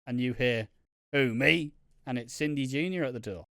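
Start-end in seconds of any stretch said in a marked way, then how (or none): 1.1-1.7 silly, louder quoted voice. Acted. Reading a fan's soap storyline aloud, silly voice. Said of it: "I said it in a silly voice".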